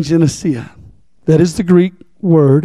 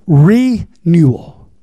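"Renewal" very slow, split as "Re... newal"; broken-down word; much slower than usual. Shown as a demonstration. Preacher breaking a word down for congregation, "Renewal" in slow parts. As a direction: stretch the "Re" of "Renewal", then a gap before "newal". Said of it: "let me break it on down".

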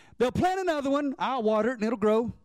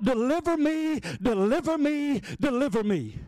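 mock crying plea. Worshipper begs the wooden god, pleading. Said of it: "they will cry out".

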